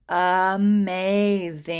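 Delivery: 'amazing' drawn out slowly for spelling; slow teacher's sounding-out of 'amazing'. Shown as a demonstration. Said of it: "I hear a".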